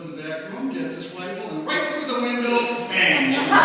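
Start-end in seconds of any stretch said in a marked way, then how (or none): 1.7-3.6 loud laughing punchline. Real, not acted. Punchline of funny story.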